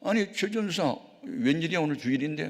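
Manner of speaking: high-pitched surprised greeting; startled. Retold or imitated. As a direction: act caught off guard by an unexpected visitor. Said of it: "깜짝 놀라면서". (깜짝 놀라 묻는 높은 말투)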